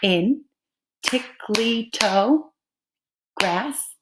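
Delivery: TICKLY TOE GRASS slowly, with gaps between beats; clapping out syllables. Shown as a demonstration. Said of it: "You can also clap it out".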